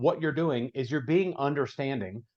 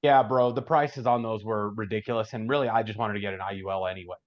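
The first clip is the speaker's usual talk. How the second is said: put-on fast young business guy. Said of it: "really fast, like, red personality guy".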